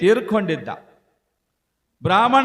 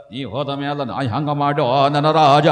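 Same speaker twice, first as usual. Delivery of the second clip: sing-song widow's keening, swelling at the end; mock wailing lament; 4 semitones lower, 4 dB louder than usual. Widow beating herself before her dead husband, mock sing-song wail. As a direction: wail it mockingly, stretching the last word long. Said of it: "ತನ್ನ ಹೊಟ್ಟೆ ಕಿಚ್ಚೆಗೆ ಅಳ್ತಾಳಕಿ".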